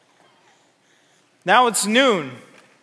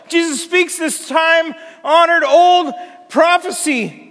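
fervent preaching; 4 semitones higher than usual. Real, not acted. Preacher builds a fervent list.

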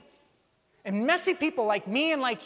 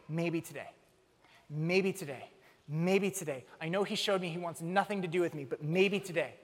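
soft, low, wistful hoping; a father quietly hoping his son returns; hopeful longing; 5 semitones lower, 4 dB quieter than usual. Retold or imitated. Father waiting on the porch, softly hoping.

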